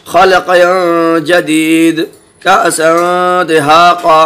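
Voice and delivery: slow, drawn-out tajweed recitation of each example; Quranic recitation. Acted. Teacher reciting examples to students, slow and measured. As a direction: intone every word with care.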